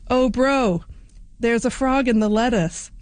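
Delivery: put-on light Australian accent, eager call; a hint of an Australian bloke calling out. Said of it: "in my best Australian accent here".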